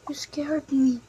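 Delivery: hushed whispered repeat. Acted. Startled sibling whispering back, hushed whisper. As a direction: breathe it out as a whisper.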